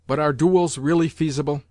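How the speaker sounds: a mild, understated sneer. Acted. General mildly sneering at the grandmother about duels. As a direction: let a faint scorn creep into the question. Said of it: "with a sneer".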